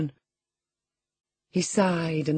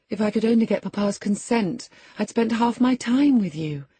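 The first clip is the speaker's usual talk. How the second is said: put-on fond young lady; 7 semitones higher, 3 dB louder than usual. A narrator's reading. Catherine fondly addresses Linton.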